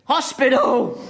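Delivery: high, loud pained outburst; exasperated yelp. Acted. Patient in pain shouting at the pushy doctor, high yelp.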